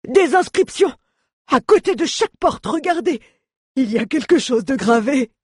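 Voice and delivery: very high, excited dwarf shouting; Mjoln crying out. A narrator's reading. Dwarf showing companions the door engravings, excited cries. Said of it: "Mjoln poussa un cri derrière eux".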